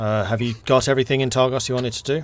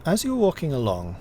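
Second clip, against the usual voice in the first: game master narration; 4 dB louder than usual. Acted. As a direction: paint the snowy road calmly. GM narrates the journey.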